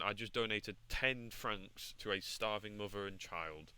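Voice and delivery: slow, measured statement of a good deed; deliberate self-justification. Acted. Falcon proving he is a gentleman, slow and measured. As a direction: lay it out slowly, word by word.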